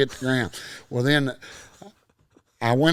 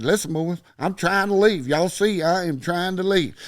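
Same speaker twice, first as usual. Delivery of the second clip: higher-pitched, insistent retold plea; exasperated protest; 5 semitones higher than usual. Teenager telling bouncers he's trying to leave, exasperated protest. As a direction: plead your case, retelling it. Pleading with bouncers mid-fight.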